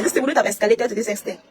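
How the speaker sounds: normal talking voice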